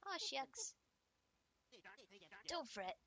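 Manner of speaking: lively, loud puppet voice; exaggerated puppet chatter; folksy puppet character. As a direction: put on a high, cartoonish show-host cheer. Plays folksy puppets in a game.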